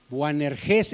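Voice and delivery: Boanerges with the stress on the final ges; stress on last syllable. Shown as a demonstration. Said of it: "el acento va en la última". (Boanerges, con el acento en la última sílaba, ges)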